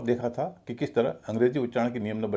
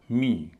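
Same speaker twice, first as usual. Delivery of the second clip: "मी" stressed with long ee; heavy syllable. Shown as a demonstration. Teacher showing the stressed part of comedian, heavy syllable. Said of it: "इसका उच्चारण भारी होगा".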